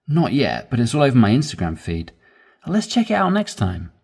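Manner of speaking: animated, quick dialogue; natural quick reading. Shown as a demonstration. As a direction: read it like real speech. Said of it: "read it quicker".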